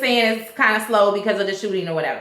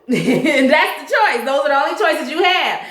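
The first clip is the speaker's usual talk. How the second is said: laughing; 3 semitones higher than usual. Real, not acted.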